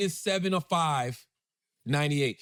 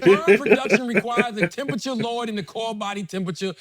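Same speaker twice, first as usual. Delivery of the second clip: laughing; 4 semitones higher, 6 dB louder than usual. Real, not acted. Reading search result aloud.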